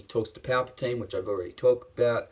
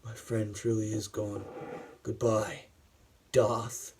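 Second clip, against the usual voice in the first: emotional farewell; 6 dB quieter than usual. Acted. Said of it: "this scene was so emotional. It was like".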